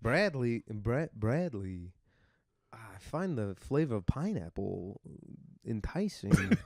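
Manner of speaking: slow, halting Walken impression; Christopher Walken voice. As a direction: pause oddly like Walken. Walken bit continues.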